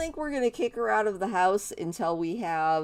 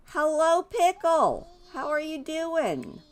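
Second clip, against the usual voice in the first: excited greeting; 8 semitones higher than usual. Real, not acted. Greeting the new toddler.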